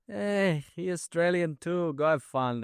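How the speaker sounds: high, loud imitation of a foreign airport officer; mock airport officer. Imitating the airport officer waving an Aussie through, high and loud. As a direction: lightly play the officer who waved him through.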